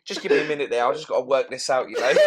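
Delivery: chuckling, asking for a moment to think; laughing confusion. Retold or imitated. Starer working out the logic, laughing. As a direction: play the baffled guy laughing it through. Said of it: "they're like".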